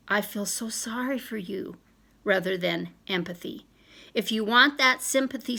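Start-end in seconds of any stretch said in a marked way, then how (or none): 0.1-1.8 pitying friend. Retold or imitated. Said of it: "the friend that responds with sympathy".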